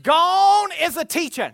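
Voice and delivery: loud, high, drawn-out cry; stretched-out pulpit shout; preacher's exclamation. Real, not acted. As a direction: proclaim it slowly at full voice. Preacher exclaims at full force.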